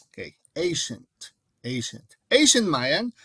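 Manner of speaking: carefully overpronounce "ancient" for the class; overpronounced ancient. Shown as a demonstration. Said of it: "I'm trying to overpronounce ancient".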